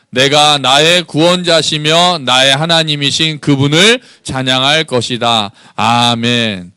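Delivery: slow, measured reading of a psalm; unison scripture reading. Acted. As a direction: read the verse aloud together, slowly. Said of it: "같이 읽어봅시다".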